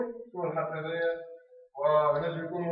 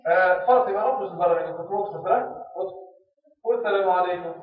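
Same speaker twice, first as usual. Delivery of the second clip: louder, a teacher calling a pupil out; stern teacher voice; 7 dB louder than usual. Acted. Teacher orders pupil Fatima out, loud and stern. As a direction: order the girl out of class, then tell her to greet. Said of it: "وقول".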